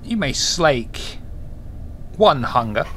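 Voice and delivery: game master narration. Acted.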